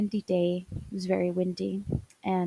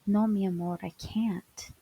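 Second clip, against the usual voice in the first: gentle refusal. Retold or imitated. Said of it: "gently say to me".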